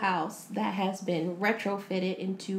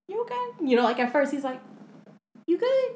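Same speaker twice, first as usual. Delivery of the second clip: mock caring husband; 6 semitones higher, faster than usual. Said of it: "He's, he's kinda like".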